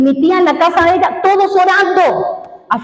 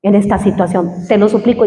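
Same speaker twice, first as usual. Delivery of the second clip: tearful plea; 5 semitones lower than usual. Retold or imitated. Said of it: "Yo lloraba ahí en el suelo". (súplica llorosa, baja y suave)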